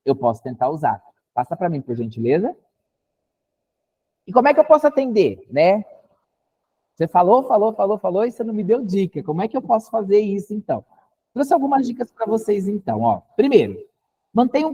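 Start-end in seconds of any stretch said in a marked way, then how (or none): 4.3-10.8 mock frustrated client.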